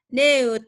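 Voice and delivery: "Neut" said slowly with an eu vowel. Shown as a demonstration. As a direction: stretch out "Neut" with the eu sound. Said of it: "Tapi dibacanya neut".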